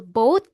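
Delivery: "both" said as "boat", ending in a hard T; "both" as bow plus a crisp T; final T sound. Shown as a demonstration. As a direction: say "both" with a T at the end, rising. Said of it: "bow na may T".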